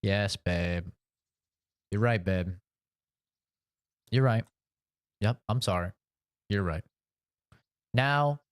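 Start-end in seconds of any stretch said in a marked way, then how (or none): 0.0-6.8 put-on meek agreeing boyfriend. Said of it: "I'd say".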